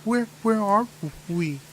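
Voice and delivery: put-on a bewildered little girl. Game master voicing the lost girl, confused child voice. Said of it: "She's like".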